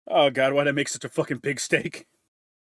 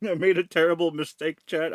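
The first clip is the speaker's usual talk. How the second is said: laughing; 4 semitones higher, 4 dB louder than usual. Real, not acted. Laughing after shout.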